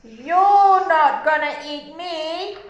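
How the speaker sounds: slow defiant billy goat, lightly voiced; big goat voice. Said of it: "what does the big billy goat say".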